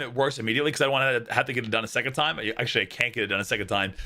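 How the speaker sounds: talking through hiccups; fighting back hiccups mid-sentence; suppressing hiccups. Real, not acted. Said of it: "sorry, these hiccups".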